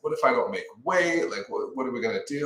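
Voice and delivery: lightly acted worried rush; mock freaking out. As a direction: retell a child's fretting. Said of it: "he's freaking out".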